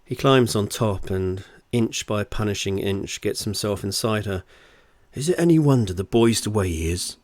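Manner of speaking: steady, deliberate audiobook read; story narration. Acted. Author reads their novel to listeners, story narration. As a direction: tell it as a wry storyteller.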